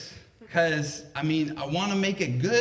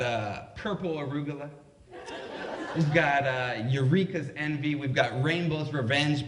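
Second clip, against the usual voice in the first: salesman mode; 3 semitones lower than usual. Retold or imitated. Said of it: "he goes into full salesman mode".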